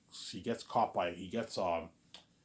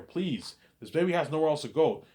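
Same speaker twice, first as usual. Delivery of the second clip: high, insistent acted plea; begging; 7 semitones higher, 6 dB louder than usual. Man begging the clerk to take the baby, pleading. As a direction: plead on the baby's behalf. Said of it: "he's begging her".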